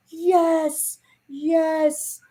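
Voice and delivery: high excited cheering; excited yell. Retold or imitated. Cheering as the cat ball lights up, high excited. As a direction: cheer like a thrilled little kid. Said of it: "you hear me yell".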